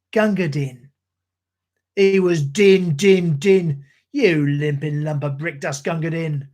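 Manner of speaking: rhythmic ballad recital in a Cockney soldier's voice; poem recitation. Acted. Streamer reciting Gunga Din to his stream, in a rhythmic Cockney recital. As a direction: recite like an old London soldier.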